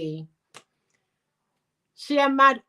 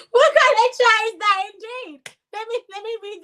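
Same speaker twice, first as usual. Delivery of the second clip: high, loud disbelief at the comment; incredulous outburst; 12 semitones higher, 8 dB louder than usual. Real, not acted. Reacting to a viewer's comment, loud incredulous cry. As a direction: cry out in mock outrage, much higher and louder. Outraged after reading comment.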